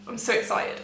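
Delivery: giddy half-whisper; barely containing the thrill under her breath; hushed excitement. Real, not acted. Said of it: "Okay, calm down".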